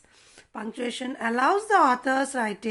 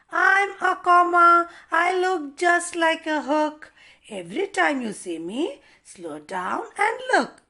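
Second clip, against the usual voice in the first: louder, higher comma speaking; cheery comma character; 4 semitones higher, 5 dB louder than usual. Acted. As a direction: announce yourself as the comma. Comma introduces itself in character.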